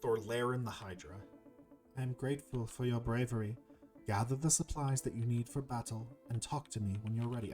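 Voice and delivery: formal, stately serpent voice; grateful serpent. Acted. Serpent sends the hero to prepare for battle, formal and grateful. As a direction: lightly play a solemn, grateful serpent.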